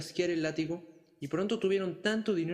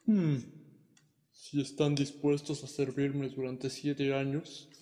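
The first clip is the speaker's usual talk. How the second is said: slow, coaxing dragon; a dragon striking a friendly bargain; slower than usual. Acted. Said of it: "dijo el dragón".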